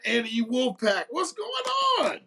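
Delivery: long stretched high shout; greeting call. Real, not acted. Hailing Andy Wolfpack from afar, stretched high shout. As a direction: call out across the room to a friend, drawn out.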